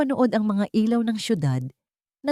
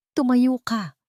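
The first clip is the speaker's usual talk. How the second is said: sharp, higher order; a cold, raised command to stand up; curt command; 6 semitones higher, slower than usual. A narrator's reading. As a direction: bark the order coldly. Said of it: "utos nito".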